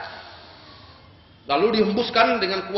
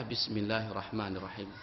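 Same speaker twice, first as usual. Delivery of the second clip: quiet invocation; 10 semitones lower, 14 dB quieter than usual. Retold or imitated. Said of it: "saya baca".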